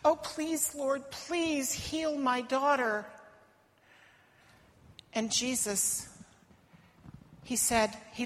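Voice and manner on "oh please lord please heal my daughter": pleading. Acted. Mother begging Jesus.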